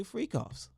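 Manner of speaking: high, exaggerated "freak offs"; hammed-up emphasis on "freak offs"; mocking over-emphasis. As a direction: push "freak offs" way up in mock scandal. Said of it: "Why you gotta say it like that?".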